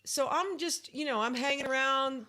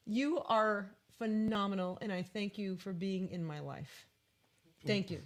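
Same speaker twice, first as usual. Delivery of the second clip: heartfelt thanks; 3 semitones lower than usual. Real, not acted. Sincere thanks to her partner.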